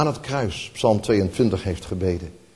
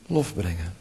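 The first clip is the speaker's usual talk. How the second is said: hushed repeat; 7 semitones lower, 8 dB quieter than usual. Shown as a demonstration. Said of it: "met lof brengen".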